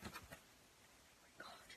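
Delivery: hushed, slow whisper of awe; breathless awed whisper. Real, not acted. Awed at the fursuit tail.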